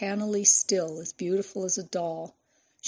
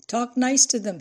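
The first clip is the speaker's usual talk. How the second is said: higher, louder shouted reply; calling back; 5 semitones higher, 6 dB louder than usual. A narrator's reading. Official joking back to the reporter from afar, calling out. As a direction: call the advice back across the distance.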